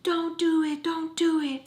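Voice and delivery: high-pitched mock plea at the screen; scary-movie viewer. Horror-movie watcher yelling at the character, mock pleading. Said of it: "if you're watching a scary movie".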